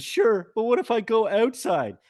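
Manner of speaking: slow, loud, high dopey voice; hammed-up dumb sitcom character; dim Joey. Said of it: "He says".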